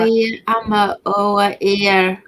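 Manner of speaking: a clumsy try at the Sunderland townie phrase, said flat; mock Sunderland townie. Guest copies the host's Sunderland townie phrase, badly. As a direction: repeat "Oh, yeah, ama" in a Sunderland accent, roughly. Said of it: "you sounded more like you were gonna drink cider".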